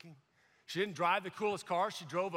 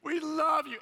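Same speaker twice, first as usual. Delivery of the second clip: slow, rising into loud fervent prayer; intense prayer; 5 semitones higher, 4 dB louder, much slower than usual. Retold or imitated. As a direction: pray with growing fervour. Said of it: "And she goes".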